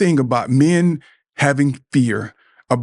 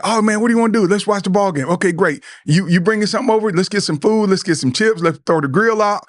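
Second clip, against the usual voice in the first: higher, upbeat buddy jumping at the plan; eager buddy; 6 semitones higher than usual. Retold or imitated. A friend eagerly says yes to watching the ball game. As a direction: sound ready for game day with the boys.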